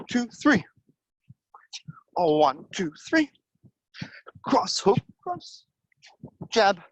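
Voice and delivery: punchy coach calling out punches; boxing coach calling combos. Acted. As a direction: call each punch short and sharp, on the beat.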